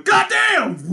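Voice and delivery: high-pitched comic exclamation; mock hero catchphrase shout. Comedian swapping out Shazam for his own line, mock shout. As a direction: shout it as a joke superhero catchphrase. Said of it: "he's just gonna go".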